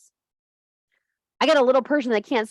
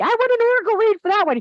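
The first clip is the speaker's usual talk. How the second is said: mocking whiny voice; 6 dB louder, faster than usual. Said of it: "Everybody's like".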